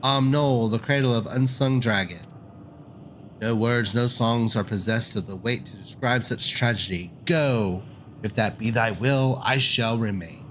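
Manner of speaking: lightly voiced grieving dragon, grave; a touch of sorrowful dragon; mournful ancient dragon. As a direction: lament like an old dragon over a lost home.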